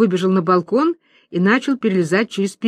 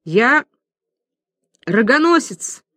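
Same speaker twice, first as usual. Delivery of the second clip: sobbing; 4 semitones higher, slower than usual. Acted. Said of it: "всхлипывая".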